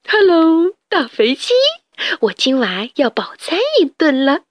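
teasing greeting; greedy glee. Acted. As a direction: gloat over dinner. Rat greets fat chickens.

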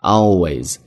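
"Always" stretched out for emphasis; long, deliberate always. Shown as a demonstration. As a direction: lengthen always, teacher demonstrating. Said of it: "拖长一些".

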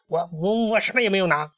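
high, stammering storybook protest; nervous denial. A narrator's reading. Hen clutching the treasure before the pharaoh, nervous.

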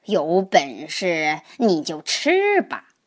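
slow, understated fierce grandpa; mild fierce challenge. Acted. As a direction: dare the snake, slowly. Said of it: "爷爷凶狠地吼道". (爷爷慢慢地挑衅蛇，略带凶狠)

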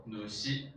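ヌシ as two syllables, "nu-shi"; kun-reading ヌシ. Shown as a demonstration. Teacher showing students the kun-reading, slow demonstrated pronunciation. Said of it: "训读呢念成ヌシ".

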